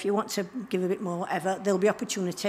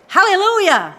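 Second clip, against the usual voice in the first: Hallelujah shouted much higher and louder; hallelujah with blast; 10 semitones higher, 11 dB louder than usual. Shown as a demonstration. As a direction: give Hallelujah full joyful blast. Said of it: "you need to give it some blast".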